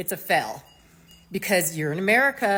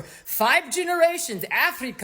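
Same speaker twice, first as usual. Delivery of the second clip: mock Afrikaner accent; 3 semitones higher than usual. Afrikaner answering where they're from, mock Afrikaner accent. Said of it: "this whole charade about".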